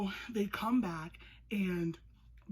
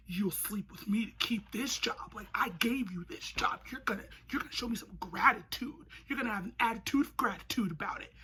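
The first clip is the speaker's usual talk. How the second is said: creepy whispering boss; 2 semitones higher than usual. Retold or imitated. Jack Hyde quote.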